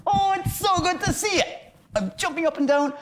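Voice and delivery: very high, excited squeal; demonstrated gushing, pitched right up; expressing excitement. Shown as a demonstration. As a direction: act giddy, as if bouncing on the spot. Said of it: "I express my emotions".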